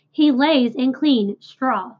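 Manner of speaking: slow, firm correction; a touch of a husband correcting his wife, slowly. Acted. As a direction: set her straight, taking your time. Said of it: "corrected Mister Zuckerman".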